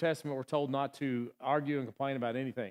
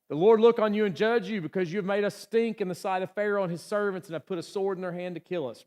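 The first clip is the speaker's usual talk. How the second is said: higher and louder, accusing quote; a mock outraged crowd accusing Moses; angry accusing crowd; 5 semitones higher, 5 dB louder than usual. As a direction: hurl the blame at Moses. Israelites berating Moses.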